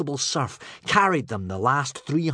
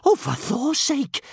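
very high, loud astonished gasp; high-pitched amazed outburst; gasped exclamation; 14 semitones higher, 5 dB louder than usual. Acted. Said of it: "gasped Kamikaze".

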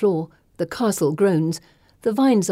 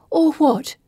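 high, hushed taunt; taunting whisper; 9 semitones higher, 5 dB louder than usual. A narrator's reading. Pippa taunts Gemma, whispered challenge. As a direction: dare her to act.

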